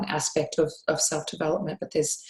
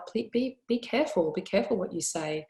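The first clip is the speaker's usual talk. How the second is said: loving warning; 3 semitones higher than usual. Retold or imitated. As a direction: caution a daughter lovingly. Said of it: "from a place of love".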